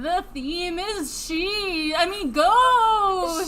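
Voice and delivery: slow, high ghostly wail. Pretend. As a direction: drag it out like a ghost. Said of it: "this is our ghost intro".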